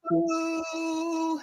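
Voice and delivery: sing-song peekaboo, stretched out; teasing peekaboo as she comes back; playful peekaboo. Real, not acted. Playful greeting on return.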